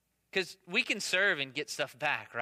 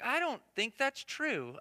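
retold doubtful reply; 7 semitones higher, slower than usual. Dad answering his boasting son, retold doubtful reply. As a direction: draw out the doubt, playfully. Father doubts son's claim.

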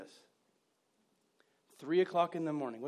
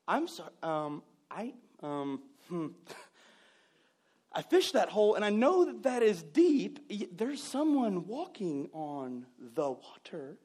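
startled fisherman; slower than usual. Pretend. Startled fisherman sees walker on water.

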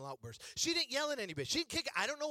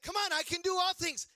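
high, insistent imitation of mom; mock pep-talk pitched high; mom urging; 8 semitones higher, 3 dB louder than usual. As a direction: press him to declare it with you. Mimics mom urging him to repeat.

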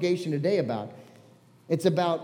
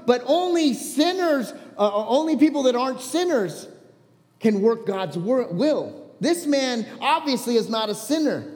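fervent, raised defiant speech; passionate retelling; 3 semitones higher than usual. Acted. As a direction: stand up to the leaders with conviction. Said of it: "I was passionate".

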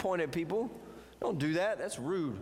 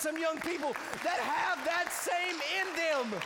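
preaching at full force; 6 semitones higher than usual. Acted. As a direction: lift it to a shouting climax. Preaching climax.

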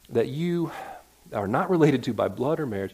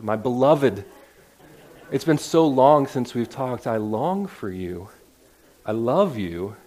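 louder, slow, overly gushing fondness; mock mushy affection; 4 dB louder, slower than usual. Pastor mock-phones his brother in Paul's words, gushing mushy affection. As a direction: gush at him like a lovesick sweetheart. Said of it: "if we're feeling mushy".

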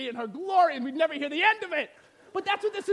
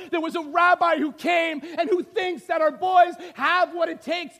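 loud, higher, thrilled shouting news; overjoyed father; 4 semitones higher, 7 dB louder than usual. Pretend. Father Zebedee telling wife Mary about sons, shouting with joy. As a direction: burst through the door with the best news ever. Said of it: "and he says".

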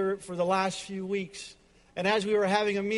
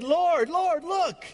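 loud, high, joyful vow; high and loud, thrilled to give it all; excited declaration; 6 semitones higher, 5 dB louder than usual. Acted. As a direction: shout it out like a man overjoyed. Zacchaeus stands up, excited.

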